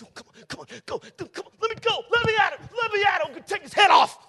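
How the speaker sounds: high, strained shout held back; eager henchman. Acted. Preacher playing David's man straining to attack, high shouts. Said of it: "The other guy says".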